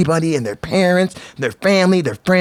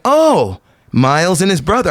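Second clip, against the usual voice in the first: sudden recognition; 3 semitones higher than usual. Retold or imitated. Sudden recognition of a former camper.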